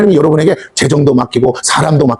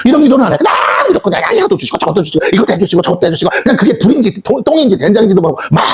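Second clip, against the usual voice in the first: preaching shout. Real, not acted. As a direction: raise the voice to rebuke the congregation. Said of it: "preacher scolding shout".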